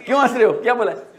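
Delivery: laughing through the words; real laughter breaking into the question. Real, not acted. Audience laughs at a university name.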